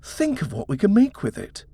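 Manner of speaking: husband gushing about the Georgian house, excited. A narrator's reading. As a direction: paint the dream house with rising excitement. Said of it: "Edward said excitedly".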